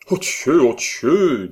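loud, breathless German exclamation; overwhelmed lover crying out; exclamation émue. A narrator's reading. Hermann exclaims. (exclamation fervente d'Hermann)

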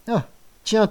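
high knowing "Ah, tiens"; suspicious. Acted. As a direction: say it like you don't believe him. Father suspicious. ("Ah, tiens" soupçonneux et aigu)

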